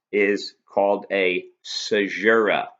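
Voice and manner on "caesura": "caesura" said carefully as a model; pronunciation demo. Shown as a demonstration. Teacher showing students how the term is pronounced, careful "caesura". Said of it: "That's how it's pronounced".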